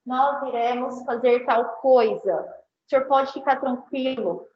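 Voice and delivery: calm the customer down, unhurried; calm reassuring. Shown as a demonstration. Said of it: "Então, olha aqui". (atendente tranquilizando o cliente com calma)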